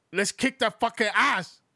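put-on Japanese accent. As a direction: put on a thick Japanese accent, building to a shout. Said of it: "I'm gonna do a Japanese accent".

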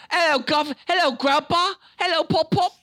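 high, loud kiddie greeting; little boy. Retold or imitated. Little Sam greeting his grandpa, high and loud. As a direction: chirp it like an eager child.

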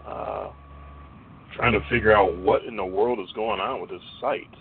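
muffled, watery sound with road noise; like a bad call from a moving car; underwater. Real, not acted. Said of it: "you sound like you're underwater and driving".

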